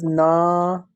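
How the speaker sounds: imitating the mistake with a long "na"; "na" held long in teacher's imitation; stretched na. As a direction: draw out "na" to show the error. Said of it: "Why are you stretching the noon as na?".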